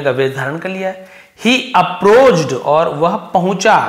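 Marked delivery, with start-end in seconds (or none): 1.5-2.5 slow, deliberate reading of the line. Shown as a demonstration. Teacher reading the story sentence to the class, slow and deliberate. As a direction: read each word out slowly.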